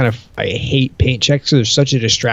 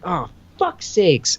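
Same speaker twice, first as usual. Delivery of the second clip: weary resigned sigh; 7 semitones higher, 4 dB quieter, much slower than usual. Retold or imitated. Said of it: "I was like".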